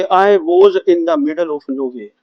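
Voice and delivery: very slow, every word separate; stretched out like a dictation; slow example sentence. Shown as a demonstration. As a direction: model the sentence slowly for the class. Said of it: "उसको मैं बोल सकता हूं".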